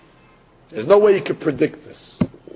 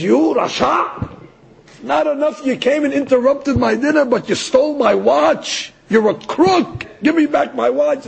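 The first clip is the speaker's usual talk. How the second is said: raised, higher pitched accusing voice; retold angry rich man demanding his watch; angry accusation; 5 semitones higher than usual. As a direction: accuse him of stealing your watch. Rich man accuses rabbi of theft.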